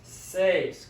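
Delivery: seis drawn out in one syllable; slow demonstration. Shown as a demonstration. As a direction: say seis slowly for learners. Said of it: "say it slowly".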